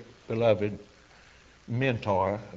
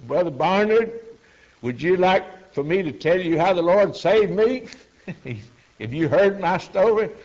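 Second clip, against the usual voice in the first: eager offer; 6 semitones higher, 5 dB louder than usual. Retold or imitated. Old convert eagerly offers his testimony.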